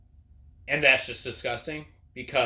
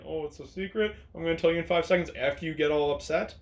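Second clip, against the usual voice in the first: coy; faster than usual. Retold or imitated. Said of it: "she has to be all, like, coy".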